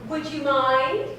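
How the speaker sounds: pointed, firmer repeat; insistent. Acted. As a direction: push it this time, insistent. Repeats request more firmly.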